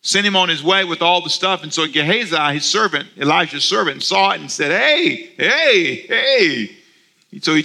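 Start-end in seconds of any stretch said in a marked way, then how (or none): 4.7-6.7 mock call after a passing chariot, pitched high. Gehazi calling out to the departing chariot, high mock call. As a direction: shout hey after the chariot.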